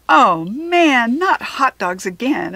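loud groaning complaint; moaning.

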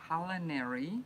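CULINARY said slowly, each syllable placed; slow, careful word. Real, not acted. Reader repeating a tricky packet word, slow and careful. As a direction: measure out CULINARY carefully to get it right. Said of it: "I had to say that slowly".

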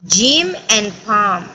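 AND said as just "n" between Jim and Pam; slow teacher model, A and D of AND silent; "Jim 'n' Pam", slowly; reduced and. Shown as a demonstration. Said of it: "no las pronunciamos, son mudas".

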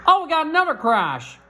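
sudden high excited call. Real, not acted. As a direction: blurt it out, alarmed and high. Crash call in race commentary.

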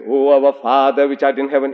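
intoned, even-pitched prayer; prayer recitation. Retold or imitated. Reader discovering the Lord's Prayer in the calligraphy, intoned recitation.

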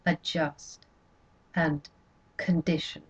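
"adjust" and "condition" spoken low and heavy, each set apart; bitter emphasis. A narrator's reading. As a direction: spit out "adjust" and "condition" as ugly words. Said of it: "although those are terrible words".

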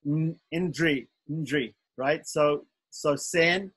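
2 "indri" said slowly and deliberately, then "sen" drawn out; 3 slow it right down to show the tricky cluster in "indri"; 1 careful slow pronunciation. Shown as a demonstration. 4 teacher slowly demonstrates the hard cluster "indri" to students. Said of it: "sometimes it's difficult to say".

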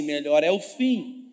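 bem alto e arrastado, "melhor é o fim"; lento e forte. Shown as a demonstration. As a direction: proclame devagar, com força: "melhor é o fim". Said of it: "fala comigo assim". (frase martelada em voz alta e lenta)

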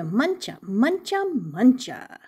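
title sung up then down in pitch; a lilting story-time chant; sing-song title. Shown as a demonstration. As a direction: chant the title with a bouncy swing. Sing-song reading of the book title.

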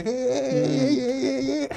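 put-on caricatured Nigerian accent the producer wanted; stereotyped Nigerian accent. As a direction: ham up the cliché Nigerian accent. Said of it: "he wanted the".

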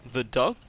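baffled query on "dog"; questioning repeat. Shown as a demonstration. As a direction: echo "The dog?" still not getting it. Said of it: "I keep repeating in a questionable, like, manner".

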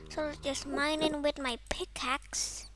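soft whisper. Real, not acted. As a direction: murmur while mining. Mining quietly.

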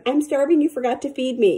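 hammed-up fake cat wail; fake cry. Owner voicing the cat's fake hungry cry, high and whiny. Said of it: "It's a fake cry".

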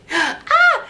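high delighted squeal; a burst of giddy laughter; laughing squeal. Real, not acted. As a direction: squeal with joy. Squealing at drawn family stickers.

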